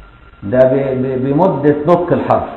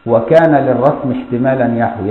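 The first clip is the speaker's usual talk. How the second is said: verse recitation. Shown as a demonstration.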